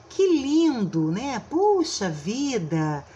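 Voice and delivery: mildly exclamatory, slow and stretched; exclamation. Shown as a demonstration. Teacher demonstrates an exclamative sentence with slow, mild delight. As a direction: act out delighted surprise for the example. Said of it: "manifesta emoção, surpresa".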